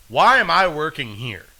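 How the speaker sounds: hammed-up exasperation at the job; exasperated outburst. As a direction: wail the question like a fed-up clerk. Acting out fed-up store clerk.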